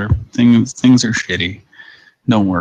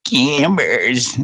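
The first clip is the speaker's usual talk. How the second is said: drawn-out brand name with a rise; old lady ad voice; 4 semitones higher than usual. Retold or imitated. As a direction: lightly echo the old lady's ad. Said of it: "Camber's commercials".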